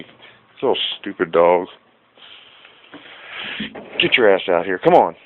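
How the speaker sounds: loud angry call out the door; shouting at the dog. Real, not acted. Owner yelling at his dog during filming, angry loud shout. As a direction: yell for the dog to get inside.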